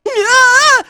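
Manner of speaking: high-pitched cry of pain. Acted. Fighter takes a hit, high pained cry.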